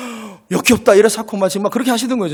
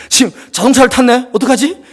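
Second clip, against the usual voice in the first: anxious parent; 4 semitones higher than usual. Retold or imitated. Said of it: "창문에 붙어가지고".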